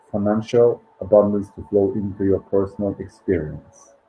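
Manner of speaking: measured book reading with pauses between phrases; meditation read-aloud. Acted. Host reads listeners a financial abundance meditation, measured read-aloud.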